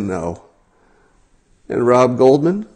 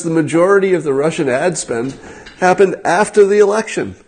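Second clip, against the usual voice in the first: "The majority of the Russian ad spend happened after the election" repeated higher in disbelief; incredulous reread; 6 semitones higher than usual. Retold or imitated. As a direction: reread it, amazed.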